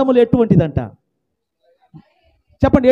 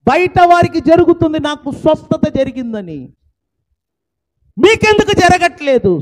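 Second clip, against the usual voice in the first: loud, raised pulpit declaration; fiery preaching; 6 semitones higher, 8 dB louder than usual. Acted. Pastor promising change to his listeners, fiery preaching. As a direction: hammer the promise home to the congregation.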